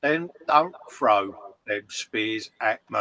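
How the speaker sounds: slow things right down and do a light Cockney movie-star drawl; Michael Caine impression. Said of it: "You went dead Michael Caine there".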